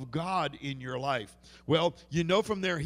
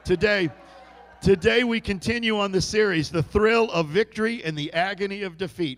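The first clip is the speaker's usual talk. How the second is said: booming, higher, declamatory announcement; loud sermon opening; 4 semitones higher, 11 dB louder than usual. Real, not acted. Preacher announces today's message to the congregation, loud and emphatic. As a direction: proclaim the series title at full force.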